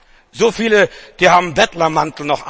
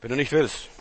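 dropped low and soft; hushed repeat; 5 semitones lower, 9 dB quieter than usual. Acted. Preacher repeats it softly to the congregation. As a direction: let it sink in quietly.

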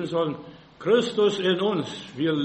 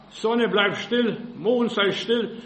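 slow, loud command to the sun; commanding call; 3 semitones higher, 3 dB louder, slower than usual. Acted. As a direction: order the heavens to stand still. Preacher voicing Joshua's command.

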